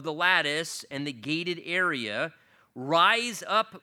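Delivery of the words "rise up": loud, drawn-out call. Acted. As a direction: call out to a beloved from outside. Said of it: "his voice calling out from outside".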